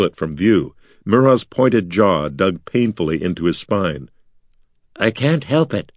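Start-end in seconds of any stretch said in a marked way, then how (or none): 5.0-5.9 a hint of the high skull voice, muffled. Skull Mira answering Artek from hiding, lightly high. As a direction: answer from behind his back, muffled. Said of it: "skull's muffled reply".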